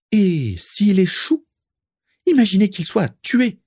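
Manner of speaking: very high, alarmed piping; high-pitched squawk. A narrator's reading. Prisca fearing for the son's life, high-pitched squawk. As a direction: raise the fear way up high. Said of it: "sa voix haut perchée".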